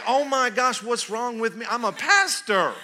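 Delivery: high, loud, laughing; what's wrong with me, laughing loud; laughing self-rebuke. Retold or imitated. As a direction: scold yourself through a laugh.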